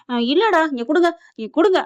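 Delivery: snatch the glass back; urgent grab. Retold or imitated. Mother grabs the milk urgently. (அவசரமாக கேட்கும் குரல்)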